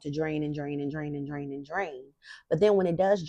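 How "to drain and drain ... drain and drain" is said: fading. Pretend. Voice drains away.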